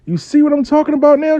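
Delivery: high, loud and emphatic; retold triumphant exclamation; vindicated told-you-so. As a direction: pitch way up, driving the point home. Retells his triumphant told-you-so.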